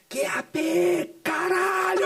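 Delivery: grito lento e irritado, bem agudo; explosão no rádio. Retold or imitated. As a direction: estoura no rádio, arrastando as letras. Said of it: "aquilo ali entrou na minha cabeça". (grito irritado no rádio)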